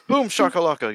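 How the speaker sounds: lightly voiced arena announcer catchphrase; a hint of the NBA Jam announcer, shouted for fun; hype announcer call. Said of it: "Get the N B A Jam guy".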